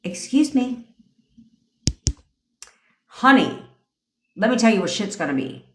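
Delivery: commanding, with a touch of sass; queenly attitude. Shown as a demonstration. Coach demonstrating how queens command, with attitude. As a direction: lay down the law like royalty. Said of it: "that type of attitude".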